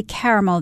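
"caramel" as KAIR-uh-mul; three-syllable caramel. Shown as a demonstration. Co-host answers how she says it, "caramel" as KAIR-uh-mul. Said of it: "the natural way for me to say it".

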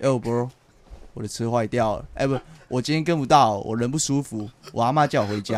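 low, laid-back excuse-making; playing it cool. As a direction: shrug it off like it's nothing. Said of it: "所以我要装得很帅".

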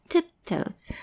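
whispered word. Shown as a demonstration. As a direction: breathe it softly.

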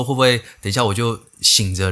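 ordinary talk, nothing marked

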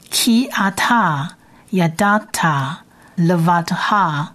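ki ata yadata levatha read slowly, syllable by syllable; slow Hebrew reading. Shown as a demonstration. Teacher reads the verse to students, slow and careful. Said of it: "我们先念一遍好了".

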